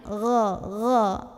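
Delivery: "gha" thick and voiced, no escaping breath; gha without air. Shown as a demonstration. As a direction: say "gha" from the throat with no hiss of air. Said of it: "nggak boleh ada angin".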